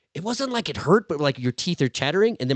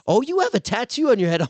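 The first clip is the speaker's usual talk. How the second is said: hairdresser voice; 11 semitones higher, 5 dB louder than usual. Retold or imitated. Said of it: "the hairdresser's like".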